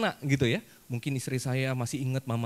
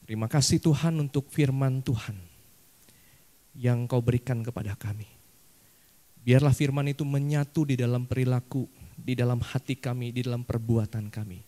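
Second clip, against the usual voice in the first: steady, earnest prayer voice; closing prayer; 2 semitones lower than usual. Acted. Pastor closing the sermon in prayer, calm earnest prayer. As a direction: pray sincerely for the congregation.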